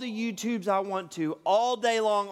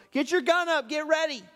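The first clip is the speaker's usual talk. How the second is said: higher-pitched, urgent get-ready call; mock heads-up, pitched up; called-out warning; 6 semitones higher than usual. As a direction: alert a hunting buddy, without really shouting. Acted warning called out to others.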